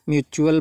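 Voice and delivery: "म्यूचुअल" said myu-chu-al; ch pronunciation. Shown as a demonstration. Teacher applies the rule for students, "म्यूचुअल" with a ch sound. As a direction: give "म्यूचुअल" a ch for its t. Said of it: "टी को चा से pronounce करते हैं".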